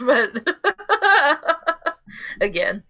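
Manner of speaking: laughing nervously through the word; a nervous, desperate chuckle. Real, not acted. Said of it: "that was a really, uh, desperate laugh".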